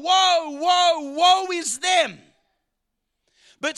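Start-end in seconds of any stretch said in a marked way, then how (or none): 0.0-2.2 prophet lamenting. Acted. Preacher voicing Isaiah lamenting the people's sins, raised cry. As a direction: cry out woe like a grieving prophet. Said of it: "And he's saying".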